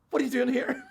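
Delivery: startled exclamation at seeing him; a hint of a shout of surprise; surprised cry. Wife and daughter see him in church.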